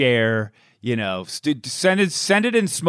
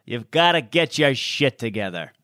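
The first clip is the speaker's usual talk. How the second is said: hammed-up father berating his boy; broadcaster's dad; 3 semitones higher than usual. Teasing co-host voices the dad judging his son's tape, mock scolding. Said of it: "And your dad be like".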